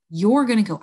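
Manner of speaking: usual speaking voice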